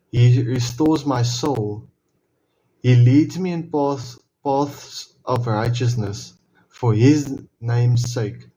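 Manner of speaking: slow, measured reading of the psalm; scripture recitation. Acted. Reading Psalm 23 aloud to viewers, slow and reverent. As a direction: let each line land slowly, like a prayer.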